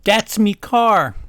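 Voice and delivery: angry. Acted. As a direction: snap it out angrily. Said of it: "Draco is angrily saying".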